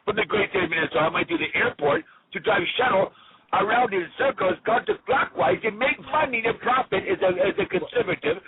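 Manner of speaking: lightly voiced Clinton rambling; Bill Clinton voice. Caller greeting the hosts as Bill Clinton. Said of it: "I do Bill Clinton's voice".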